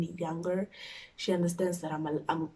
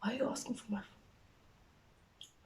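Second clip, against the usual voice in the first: hushed, slow and higher; timid question; 4 semitones higher, 11 dB quieter, slower than usual. Retold or imitated. Daughter with uncleared chats asking mom, timid hush. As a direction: ask it softly, very carefully.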